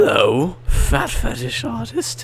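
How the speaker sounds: high put-on prank caller voice; squeaky silly caller. Prank call voice, high pitched.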